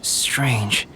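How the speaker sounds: whispered to himself. Acted. Puzzled remark to himself.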